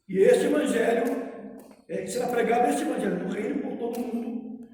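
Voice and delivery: solemn, measured Bible reading; scripture reading. Acted. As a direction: read the Gospel aloud to the congregation. Reads Gospel passage aloud.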